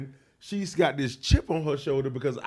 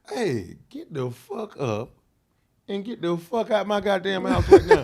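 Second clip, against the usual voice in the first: retold angry yell; 5 semitones higher, 5 dB louder than usual. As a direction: kick her off the couch, voice rising to a yell. Retold throwing her out.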